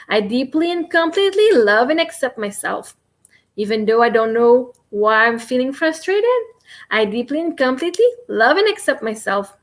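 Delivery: calm, even affirmation repeated like a mantra; tapping affirmation demo. Shown as a demonstration. Coach showing viewers the tapping script, steady affirmation voice. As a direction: recite it steadily, one phrase after another. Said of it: "You can go".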